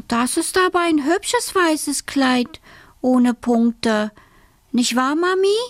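put-on high, slow admiring girl; little girl character. A narrator's reading. Alice admires mother's onions and dress, high and slow. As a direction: coo sweetly to Mummy in a girl's voice.

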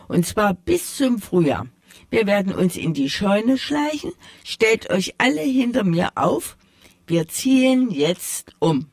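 a gentle hint of a caring mouse mother. Old mouse gives the plan.

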